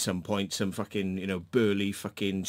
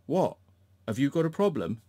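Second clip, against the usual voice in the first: mocking mirror; 4 semitones higher than usual. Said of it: "just mirroring the bullshit".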